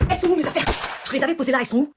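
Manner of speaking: yelling for her things; frantic loud demand; shouting. Acted.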